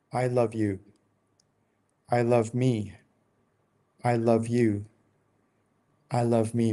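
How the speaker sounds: sincere and unhurried, letting every word land with depth; slow, deep, heartfelt. Shown as a demonstration. Speaker to own soul, slow and deeply sincere. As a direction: say each line slowly, with long pauses, like you mean it. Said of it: "say it slower, say it like you mean it, say it with so much depth".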